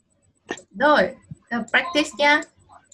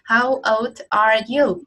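slow model question; 2 semitones lower, slower than usual. Shown as a demonstration. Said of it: "một câu hỏi là hỏi tuổi".

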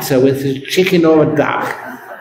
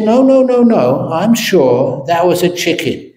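stubborn insisting; 4 semitones higher than usual. Acted. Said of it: "He said".

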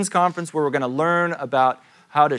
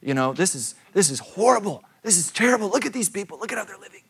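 retold indignant rant; 7 semitones higher, faster than usual. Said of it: "I'm like".

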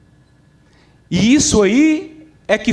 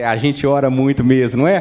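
voz mais grave, de peito estufado; crente orgulhoso; 6 semitones lower than usual. Acted. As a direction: encher o peito num orgulho de piada. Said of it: "Aí ele encheu o peito". (crente todo cheio de si, em tom grave)

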